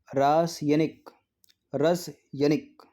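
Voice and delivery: slow, drawn-out reading of each spelling. Shown as a demonstration. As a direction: drag out रासायनिक syllable by syllable like dictation. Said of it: "options read out slowly".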